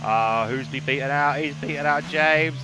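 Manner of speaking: loud, jeering commentary. Real, not acted. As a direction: call it out loudly, then boo. Mock-booing a driver beaten out.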